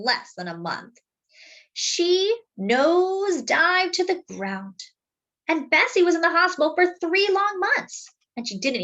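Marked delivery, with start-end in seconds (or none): 1.7-7.3 dramatic rise. A narrator's reading. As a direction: let the voice swoop up with the plane. Dramatic crash narration.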